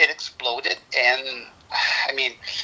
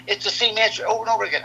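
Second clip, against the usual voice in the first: quick, higher, exasperated complaint; exasperated son; 5 semitones higher, faster than usual. Retold or imitated. Son complaining to dad about repeated question, fast and exasperated. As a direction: rattle it off fast like a fed-up kid. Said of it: "He goes, he says".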